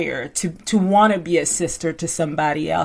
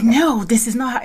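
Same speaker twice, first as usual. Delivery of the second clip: a firm, insistent no; super adamant; 3 semitones higher than usual. Retold or imitated. Bethany insisting to Jill she is right, adamant. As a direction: shut her down, no room for doubt. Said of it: "super adamant".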